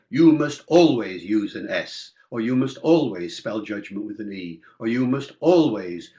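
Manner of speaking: lightly voiced rule-maker, leaning on "always"; prescriptive rule-maker. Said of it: "A prescriptive approach would say".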